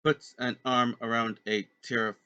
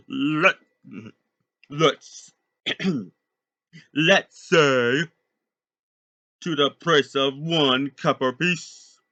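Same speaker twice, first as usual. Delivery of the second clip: high squawky parrot voice, louder; 4 semitones higher, 7 dB louder, slower than usual. Acted. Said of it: "talks in a parrot voice".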